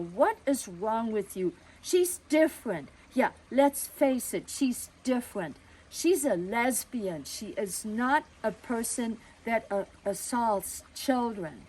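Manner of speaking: a father starting to boil over; father defending their friend to the neighbor; rising anger. Retold or imitated. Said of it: "he was just gonna explode".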